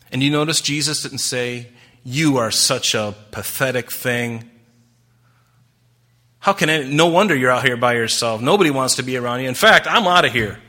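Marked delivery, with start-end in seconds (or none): 2.0-10.6 louder, emphatic pretend rebuke; hammed-up disgusted dismissal; mock scorn. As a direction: act out a dismissive put-down, building in volume. Mock rebuke Jesus did not say.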